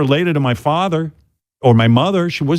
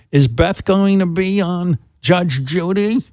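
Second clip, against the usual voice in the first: mother voice; 5 semitones higher, slower than usual. Retold or imitated. Son voicing his mother.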